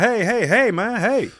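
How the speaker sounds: high-pitched imitation of an older sergeant; gentle checking. Older master sergeant stopping loose talk, imitated gentle check. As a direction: interrupt with repeated, high little heys. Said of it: "the way he said".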